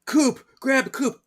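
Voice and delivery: high, loud calling out; mock urgent call. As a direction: call out in a hammed-up panic. Sisters call out urgently in retelling.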